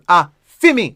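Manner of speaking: "A, fi me" with a beat before "fi me"; "A" then "fi me" run together; rhythm of "a fi me". Shown as a demonstration. Teacher drilling the phrase's rhythm, rhythmic Patois. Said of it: "It's two word that".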